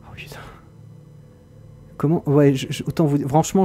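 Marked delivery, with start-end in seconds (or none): 0.1-0.4 very quiet curse under the breath; barely audible mutter; hushed swearing. Real, not acted. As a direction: breathe the oath out. Scared while exploring.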